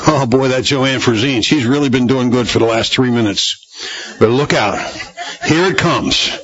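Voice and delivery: lightly voiced, laughing worried onlooker; mock fretful God. Preacher joking about God fretting over Joanne Frazine. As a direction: tease it like a nervous gossip. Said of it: "He's not gonna be surprised and say".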